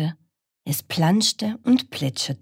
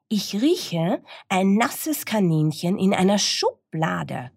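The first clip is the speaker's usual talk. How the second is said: high, mildly animated dog; barking dog; 5 semitones higher than usual. Acted. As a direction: announce a scent as the dog. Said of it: "bellte der Hund".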